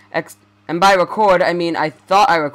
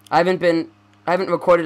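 tripping over his words; restarting the sentence; stuttering. Real, not acted. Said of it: "I was just stuttering so fucking much".

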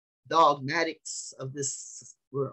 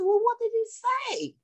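retold question; slower than usual. Preacher quotes his own question.

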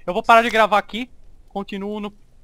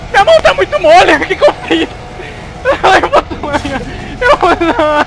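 alto e agitado, quase chorando; tonto e em pânico; 7 semitones higher, 8 dB louder than usual. Real, not acted. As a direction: fale tonto e apavorado. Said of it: "Eu tô muito tonto". (voz de pânico, tonto)

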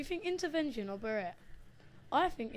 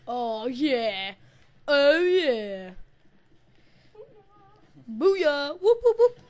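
shouted, triumphant whoops; real victory yelling; loud celebration; 4 semitones higher, 13 dB louder, much slower than usual. Real, not acted. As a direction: cheer like you just won. Celebrating a kill in game.

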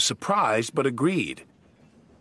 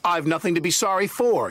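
cross; 6 semitones higher, 3 dB louder than usual. Acted. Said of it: "he said".

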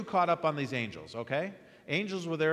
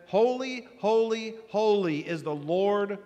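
high, loud, ringing holy, holy, holy; proclaiming; 6 semitones higher, 6 dB louder, slower than usual. Acted. Seraphim calling to one another, loud proclamation. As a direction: call it out like angels crying praise.

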